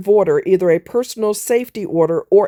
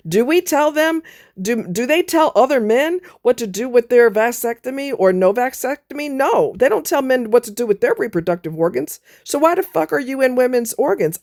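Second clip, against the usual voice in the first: angry rant; 4 semitones higher than usual. Real, not acted. Angry rant about lawmakers.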